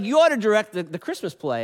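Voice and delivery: bossy Lucy. Retold or imitated. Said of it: "And she's like".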